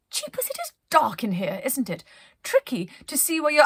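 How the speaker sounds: a touch uneasy in the dark; Penelope's voice. Acted. Penelope remarks on the dark wood, lightly nervous. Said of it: "Penelope said".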